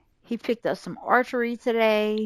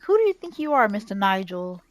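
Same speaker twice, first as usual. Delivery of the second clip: angry; 4 dB louder than usual. Pretend. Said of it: "And he's angry".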